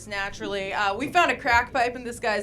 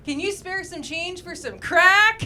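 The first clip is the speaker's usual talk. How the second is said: bright, higher, slower friendly beggar's ask; cheery panhandler pitch; 5 semitones higher, 5 dB louder, slower than usual. Shown as a demonstration. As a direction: sell it like a charming panhandler. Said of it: "You say things like".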